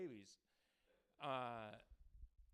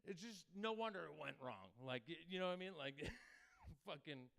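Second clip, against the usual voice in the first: normal talking voice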